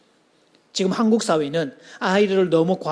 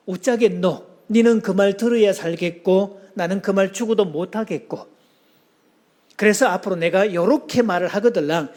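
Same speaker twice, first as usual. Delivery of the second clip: put-on Gyeongsang accent. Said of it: "부산의 한 남자가".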